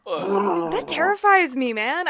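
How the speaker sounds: slow, laughing through the words. Real, not acted. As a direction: laugh while saying it.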